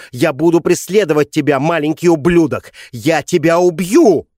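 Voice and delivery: put-on mother screams threats at the boy; hysterical screaming. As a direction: scream the threats, losing all control. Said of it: "Её истерические крики".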